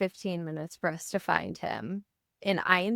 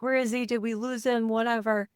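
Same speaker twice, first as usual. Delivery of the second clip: put-on higher voice of a worried little boy; panicky child; 4 semitones higher than usual. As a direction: play the frantic younger son, higher. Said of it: "My youngest is freaking out".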